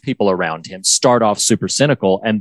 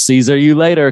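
slightly raised, punny goodbye; imitating Higgins; 4 semitones higher, 4 dB louder than usual. Host imitating Higgins's punny goodbye, slightly raised. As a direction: deliver the salad pun. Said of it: "Higgins says".

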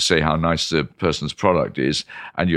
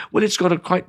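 dithering wine connoisseur; 4 semitones higher than usual. Acted. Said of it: "the audience would have been fast asleep".

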